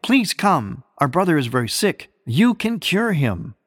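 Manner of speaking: mildly imploring, pitch lifted at the ends; retold pleading. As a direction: voice the sisters' plea, with restraint. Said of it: "pleaded to Christ beforehand".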